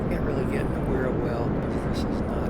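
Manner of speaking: numb mouth after dental work; slightly slurred, numb mouth speech; talking funny after tooth removal. Real, not acted. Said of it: "I'm talking kind of funny".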